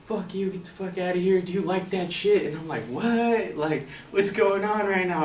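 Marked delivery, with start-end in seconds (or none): 0.1-2.5 mild imitation of a heckler; retold yelling. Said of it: "and he's yelling". 2.8-5.2 high, drawn-out "what?"; mock-bewildered; acted bafflement. Acting his baffled reaction.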